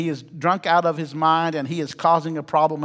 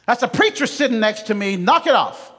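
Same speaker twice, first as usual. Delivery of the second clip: stern yell; 5 semitones higher than usual. Retold or imitated. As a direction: bark it at the back seat like a fed-up sergeant. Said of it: "yells at him in a very stern voice".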